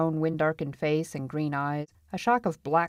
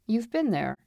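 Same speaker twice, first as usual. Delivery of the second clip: higher, pointed question; demanding; 6 semitones higher than usual. A narrator's reading. Feist questions the marshal's past, demanding. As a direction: press him for an answer. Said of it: "he demanded".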